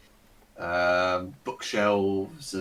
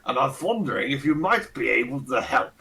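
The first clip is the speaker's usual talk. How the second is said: lightly voiced pompous old aristocrat; a hint of a Ronnie Barker toff; pompous old lord; 3 semitones higher than usual. Fat old lord greeting the party, lightly pompous and fussy. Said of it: "with the accent and everything".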